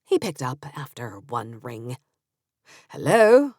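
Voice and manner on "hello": put-on English accent. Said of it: "in that beautiful English accent of his".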